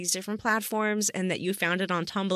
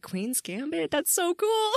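excited; 10 semitones higher than usual. Retold or imitated. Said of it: "I was like".

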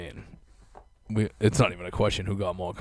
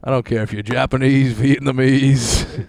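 louder, drawn-out mogul put-down; mock mogul rant; 2 semitones higher, 4 dB louder than usual. A co-host playing the studio boss in the bit, in a slow mock put-down. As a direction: stretch the last word out slowly. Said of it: "improvised studio boss bit".

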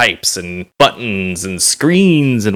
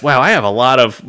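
talking through a burp. Real, not acted. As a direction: burp mid-sentence. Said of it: "I am just burping nonstop".

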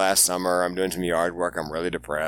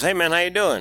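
chirpy driver greeting; 9 semitones higher, 4 dB louder than usual. Retold or imitated. Uber driver greets him.

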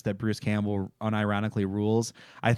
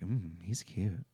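swooning; 5 semitones lower, 12 dB quieter, slower than usual. Retold or imitated. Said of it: "She's like".

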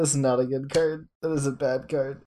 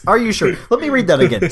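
high, loud astonished rereading; stunned, checking the card again; reading in disbelief; 7 dB louder, slower than usual. Retold or imitated. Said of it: "I was like".

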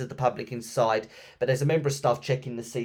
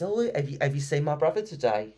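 ghostly plea; 3 semitones higher than usual. Retold or imitated. Ghost sister asks for brother.

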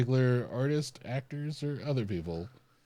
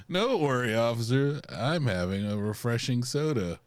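sly innocent excuse; 2 semitones higher, 5 dB louder than usual. Pretend. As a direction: play innocent to an officer. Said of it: "like, like".

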